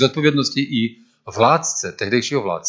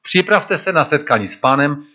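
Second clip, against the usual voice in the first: "připravte" lifted higher and louder as a call; preaching John's call; 5 semitones higher, 4 dB louder than usual. Acted. Preacher voices John calling the people to get ready, raised. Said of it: "Jan káže".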